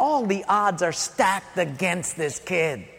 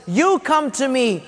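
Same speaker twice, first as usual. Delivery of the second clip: firm, slightly raised defiant declaration; mock shouted reply. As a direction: answer the giant with bold confidence. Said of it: "he shouts in reply".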